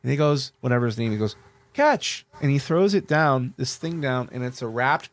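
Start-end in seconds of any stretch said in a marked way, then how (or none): 1.7-2.2 shouted call. Retold or imitated. Santa calls down to cop.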